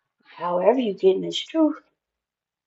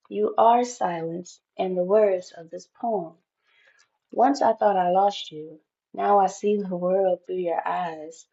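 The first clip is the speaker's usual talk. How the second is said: reading Rumi's Union card to viewers; poem reading. Acted. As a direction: read it like a love letter. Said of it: "it says".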